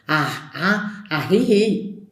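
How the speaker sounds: "Ah, ah, ajiji" in a put-on rustic voice; local expression. Shown as a demonstration. Showing how locals say yes indeed, in a lightly put-on voice. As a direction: drawl "ajiji" with a breathy h. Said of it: "en vez de decir así sí".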